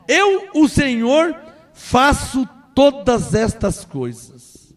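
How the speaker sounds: slow, solemn voice of God; slow scripture reading. Shown as a demonstration. Preacher reading God's words to the congregation slowly. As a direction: lay out each word slowly. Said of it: "Deus falou".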